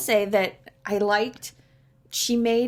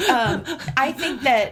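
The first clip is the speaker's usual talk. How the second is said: laughing; 3 semitones higher than usual. Real, not acted. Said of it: "You would have had a hard time".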